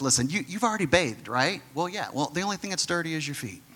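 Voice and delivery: calm him down quietly; softly amused Jesus. Acted. Jesus laughs gently at Peter.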